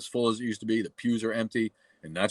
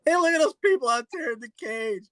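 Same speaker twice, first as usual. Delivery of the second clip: much higher, louder jeering voice for the caged monkeys; squeaky cartoon-monkey taunt, much higher; mock monkey voice; 6 dB louder than usual. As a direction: ape the monkeys mocking people outside the cage. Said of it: "and they're like".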